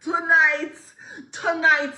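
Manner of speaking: loud, high hype call; hype announcement. Real, not acted. Streamer hyping her viewers, loud and high. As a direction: pump up the live audience.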